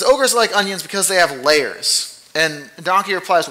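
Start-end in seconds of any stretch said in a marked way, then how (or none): 0.0-2.3 Shrek. Retold or imitated. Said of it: "he says".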